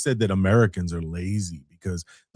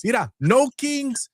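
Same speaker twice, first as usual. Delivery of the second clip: slow mocking slogan; 12 semitones higher, slower than usual. Repeated slogan slower.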